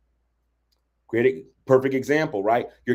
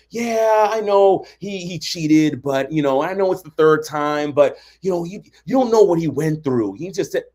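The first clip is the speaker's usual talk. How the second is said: making excuses; 2 semitones higher than usual. Acted. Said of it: "start making excuses from".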